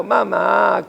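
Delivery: put-on a child begging mother, gently; mild mock pleading call. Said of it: "Para suplicando".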